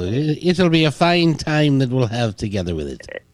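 playful put-on Irish lilt; attempted British accent that comes out Irish. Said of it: "that sounds like you're Irish there".

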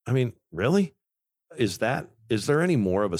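rising disbelieving "really?"; incredulous. Real, not acted. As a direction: scoff at it in disbelief. Incredulous at advisor's answer.

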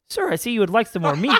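mock formal waiter. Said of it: "he goes".

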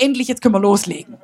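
quick, laughing reply of the Holy Spirit; fast and laughing, a playful "finally". Retold or imitated. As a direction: laugh it out with relief. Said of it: "Sagt er".

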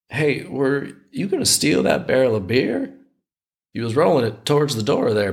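lightly hammed-up Southern old-timer; terrible Southern accent. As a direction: ask it as a suspicious old Southerner. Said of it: "I got to do a terrible Southern accent".

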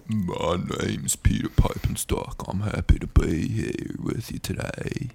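breathy dad impression; imitating dad. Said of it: "My dad".

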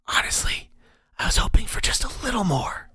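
eerie unvoiced whisper of a hidden mentor; whispering inner voice. The mysterious voice counsels Ank, eerie whisper. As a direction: breathe it like a voice inside his skull.

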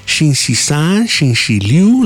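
Xing Shi San said slowly, Xing Shi Liu after it; Mandarin weekdays. Retold or imitated. Coworkers teaching him weekdays, slow and careful in Mandarin. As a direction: repeat the day names slowly like a teacher. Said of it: "how do you say Wednesday".

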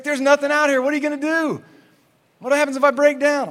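mock-frantic questions, pitched right up; hammed-up panic. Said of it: "I'm freaking out".

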